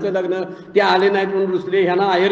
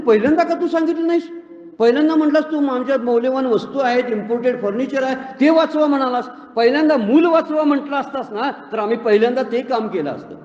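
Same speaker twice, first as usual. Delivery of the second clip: indignant retort; 3 semitones higher than usual. Retold or imitated. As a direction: throw his foolishness back at him. Crowd scolds the rich man. (श्रीमंत सेठजीला लोक रागाने जाब विचारतात)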